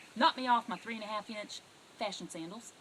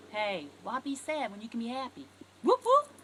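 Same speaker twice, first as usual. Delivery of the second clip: excited whoop whoop; 8 dB louder than usual. Shown as a demonstration. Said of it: "walk over to 'em and go".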